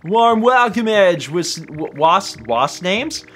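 a hint of a cheery British hideaway man. Reading the hidden guy's welcome in a light British voice. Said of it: "What's name is a British way of saying".

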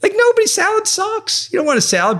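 high, jokey dude talking himself into cake; mock dude voice. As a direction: egg on yourself like a carefree bro. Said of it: "And I'm like".

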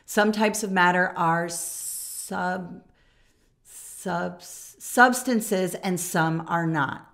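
slow halting read, tripping on sub-, sub-, substances; stumbling reader. Retold or imitated. Student reading aloud, stumbling slowly over substances. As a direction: stammer over the hard word then push through slowly. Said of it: "Notice that Sam struggled with the word substance".

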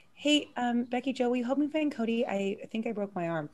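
understated, matter-of-fact request; calm. Retold or imitated. Hurt friend asking for help finding her boyfriend, calm. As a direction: imitate someone calmly playing down an injury. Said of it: "as calm as possible".

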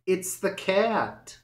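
high alarmed warning. A narrator's reading. Johnny warns Pippin about the cat, high and alarmed. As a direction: blurt it out in a panic. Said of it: "cried Johnny Town Mouse".

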